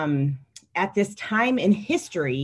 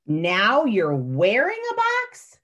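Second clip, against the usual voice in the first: adult voice; 3 semitones higher, slower than usual. Acted. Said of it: "I'm gonna read the adult voice".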